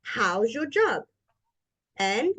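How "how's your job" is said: HOW'S lifted, then JOB rising and falling; intonation demo with "How's" going up and "job" falling. Shown as a demonstration. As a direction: lift "How's", let "job" come down. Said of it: "So it goes up".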